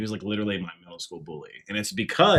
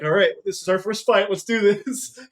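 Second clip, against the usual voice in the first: loud, high re-enacted challenge; retold pumped-up fighting talk; fired-up challenge; 11 semitones higher, 9 dB louder than usual. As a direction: square up for a first fight, voice raised. Acting himself squaring up to fight.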